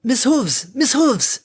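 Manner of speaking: high, urgent shout. A narrator's reading. Harmony flies at the pair to warn them, shouting. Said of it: "An airborne Pegasus shouted".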